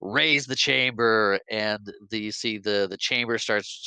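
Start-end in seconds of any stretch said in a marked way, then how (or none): 0.0-1.4 slow, proud villain declaration; grand villain. Retold or imitated. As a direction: savor each word of the unveiling. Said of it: "he's like".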